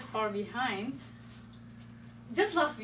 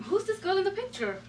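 mock accusing question; 8 semitones higher than usual. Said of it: "I question him".

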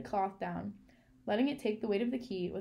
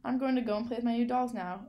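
raised voice so the hand can hear; deliberately louder announcement; a little louder; 3 semitones higher, 4 dB louder than usual. Acted. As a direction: say it up a bit louder, for show. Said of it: "she said a little louder".

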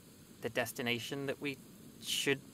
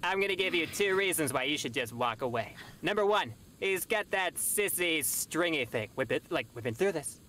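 lightly pitched-up angel voice; a hint of a prissy shoulder angel; Kronk shoulder angel voice. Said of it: "Kronk shoulder angel voice".

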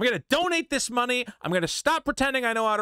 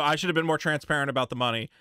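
mock apology; 8 semitones lower, faster than usual. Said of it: "You know".

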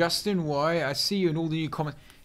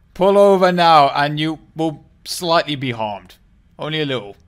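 mock air police; 9 dB louder than usual. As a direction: play a stern traffic cop in the sky. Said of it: "this is the German air police".

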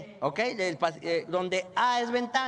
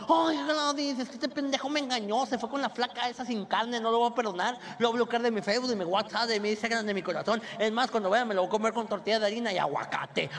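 whiny chubby woman. Retold or imitated. Passenger telling Gladys her boyfriend cheated, mock whine. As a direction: complain like a dumped diva. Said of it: "la voz chillona que te cae mal".

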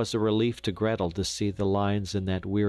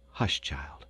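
low, sudden, clipped command to be silent; sharp hush; 6 semitones lower, 4 dB quieter than usual. Acted. Mother silencing Gretel beside the sick father, sharply. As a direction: cut her off at once. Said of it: "came so suddenly and sharply".

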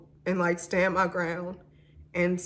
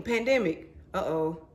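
usual speaking voice

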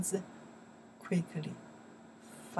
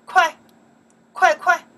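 much higher and louder 快 快 快; urgent calls; 10 semitones higher, 14 dB louder than usual. Shown as a demonstration. Urging someone to hurry, much higher and louder. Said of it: "I can say".

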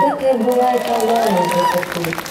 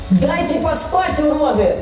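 yelling; 6 semitones higher than usual. Acted. Yelling up at noisy neighbours.

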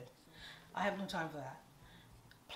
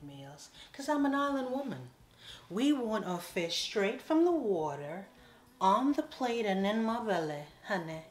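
higher, louder, relishing every word; excited island woman boast; 3 semitones higher, 8 dB louder than usual. Real, not acted. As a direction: brag about fresh fish with gusto. Island woman boasting about fish.

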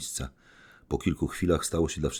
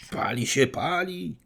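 shouting; 14 semitones higher than usual. Acted. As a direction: shout fire in panic. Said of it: "krzyczeli wszyscy razem".

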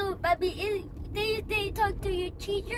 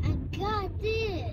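slow and fuller, stepping up the volume; braver, slower repeat; louder; much slower than usual. Real, not acted. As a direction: say it out, slowly, with more voice.

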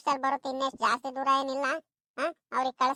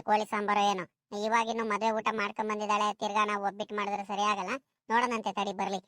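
lightly voiced elder, sinking lower; mother-in-law; 4 semitones lower than usual. Mother-in-law deciding what to cook for the guest, lightly voiced elder. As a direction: settle gradually into a low elder's voice.

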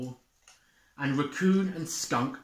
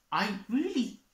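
Moose starts; 10 semitones higher than usual. Acted. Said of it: "started Moose".

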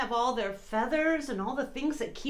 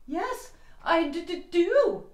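slow, stammering with cold; shivering; 6 semitones higher, 3 dB louder, much slower than usual. Acted. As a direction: teeth chattering on d. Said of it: "he said with a shiver".

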